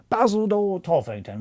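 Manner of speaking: high trial voice for the character; trying a voice. Shown as a demonstration. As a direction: test the name in a lifted put-on voice. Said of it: "Well, he's Cockney".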